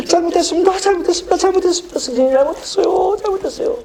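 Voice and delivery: high sobbing, repeated apology; crying apology. Retold or imitated. Boy on his knees begging teacher, high sobbing apology. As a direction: beg for mercy through tears. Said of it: "제가 울면서".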